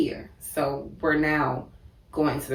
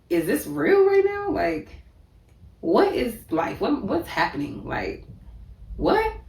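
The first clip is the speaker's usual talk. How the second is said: high, loud, panicked disbelief; 9 semitones higher, 3 dB louder than usual. Retold or imitated. Reliving the moment she sees him shot, panicked and much higher and louder. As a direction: shriek out the questions in shock.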